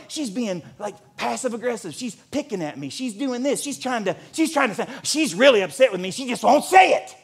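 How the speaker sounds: mock griping. Acting out his old paranoid pouting.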